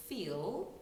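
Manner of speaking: "feel" as an English diphthong, fee-ul. Shown as a demonstration. Coach showing a long English vowel, "feel" as a diphthong. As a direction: glide through two vowels in "feel". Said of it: "that's a diphthong".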